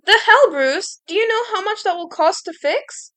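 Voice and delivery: loud, high, angry shout. A narrator's reading. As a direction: yell at him over the broken door. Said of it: "I was still shouting".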